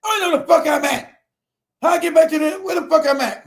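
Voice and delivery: high-pitched exasperated rant; mad. Retold or imitated. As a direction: retell being lost and fuming. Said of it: "now I'm mad".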